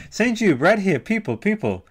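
high, loud hype for a friend; excited shout-out. Real, not acted. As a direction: show off your friend to the crowd. Presenting a friend to the audience.

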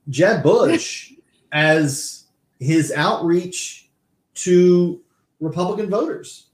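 fighting back laughter, slowed down; stifled giggles. Real, not acted. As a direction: talk through held-in laughs. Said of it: "I'm trying not to laugh".

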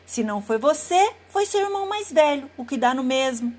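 wolf pressing his accusation; insistent wolf. Acted. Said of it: "o lobo insistiu". (lobo insistente e bravo)

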